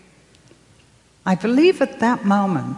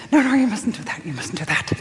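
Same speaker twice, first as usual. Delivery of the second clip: imitated panicked voice; faster than usual. Inner voice stopping the girl reading, mock panic. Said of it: "And the other voice panicked".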